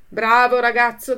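loud cry of praise; shouted praise. Acted. Farmer praising Pinocchio, loud cry. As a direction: call out proudly. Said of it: "gridò il contadino".

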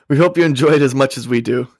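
lightly put-on Texas accent. Host reads label's closing line, in Texas accent. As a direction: sign off the label as a Texan. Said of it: "read it in a Texas accent".

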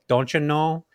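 a light Upper Midwest accent impression; Minnesota accent. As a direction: mimic a sweet Fargo accent. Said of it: "there was this really beautiful accent".

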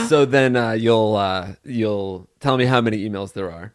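ordinary talk

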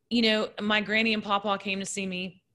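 tearful, voice catching; real tears, words breaking off; crying, worn out. Real, not acted. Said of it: "I can't stop crying".

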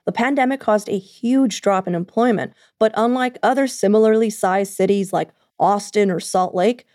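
steady podcast news voice; news read. Acted. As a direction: read it like a local news bulletin. News segment and outro read.

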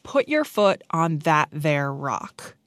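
put-on slow, careful try at a Newfoundland accent; imitated Newfoundland accent. Newcomer echoing a friend, slow imitated Newfoundland accent. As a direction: sound out the Newfoundland accent slowly. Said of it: "repeating that in her accent".

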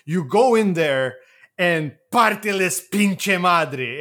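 slow, firm command, half-acted; lightly acted mother giving orders; mock stern order. Mother ordering her son into the fight, firm and slow. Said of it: "goes to Jaime and says".

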